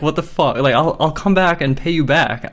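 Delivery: high, frustrated replay of arguing; really frustrated. Retold or imitated. Customer retelling bargaining with the manager, really frustrated. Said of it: "I was getting really frustrated".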